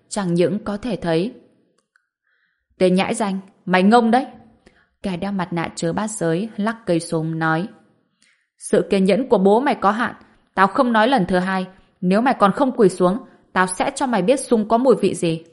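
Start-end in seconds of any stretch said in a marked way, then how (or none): 2.8-4.3 angry taunt. Acted. Gunman taunts the hero. 8.6-15.4 menacing threat. Acted. Gunman threatens to shoot.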